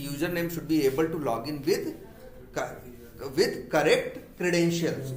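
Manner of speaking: dictated very slowly, word by word; slow classroom dictation. Shown as a demonstration. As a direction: read it out slowly so they can write. Dictating the feature statement.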